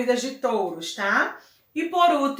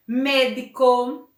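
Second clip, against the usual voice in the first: Médico, slow, with a strong first syllable; stress on MÉ; slower than usual. Shown as a demonstration. Teacher gives an example of esdrújula, stressing the start of Médico. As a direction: lean on the Mé of Médico. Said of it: "na antepenúltima sílaba".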